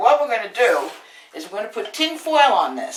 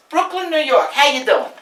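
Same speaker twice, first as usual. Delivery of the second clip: louder, higher Brooklyn greeting in New York accent; 4 semitones higher, 3 dB louder than usual. Shown as a demonstration. Cook introducing her Brooklyn roots, playful New York accent. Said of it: "I got a New York Italian accent".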